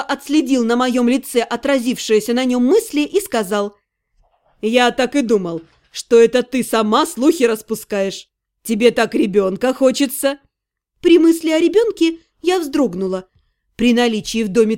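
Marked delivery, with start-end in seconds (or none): 4.6-10.4 lightly voiced necromancer, slightly lower, reproachful; accusing Irga. Necromancer accusing heroine of spreading rumours, low-key reproach. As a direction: confront her in a contained, lowered voice.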